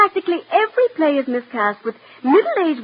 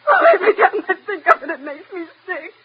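tearful; 3 semitones higher than usual. Acted. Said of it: "stop crying".

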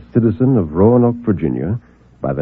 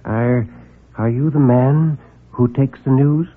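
nervous; 3 semitones higher, slower than usual. Acted. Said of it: "he was nervous".

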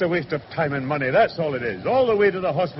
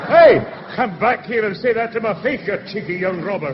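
indignant calling out; 2 semitones higher than usual. Acted. Passenger yells after departing driver.

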